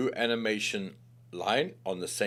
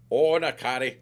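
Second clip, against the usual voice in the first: calling out; 4 semitones higher, 9 dB louder than usual. Real, not acted. Calling out at pet or onlooker.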